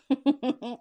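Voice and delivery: bursting into loud laughter; cracking up at a weird message; real laugh. Real, not acted. Reader laughing at her spirit guide's message, loud burst of laughter. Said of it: "that's the reason why I'm laughing".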